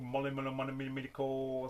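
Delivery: garbled babble on one level pitch; mumbo-jumbo reading. Pretend. Collector faking the Spanish on a promo label, babbled. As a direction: fudge unreadable foreign words as babble.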